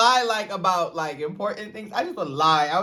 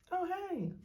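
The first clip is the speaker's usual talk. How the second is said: normal greeting; 11 semitones higher, 13 dB quieter than usual. Shown as a demonstration. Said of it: "See how normal that was?".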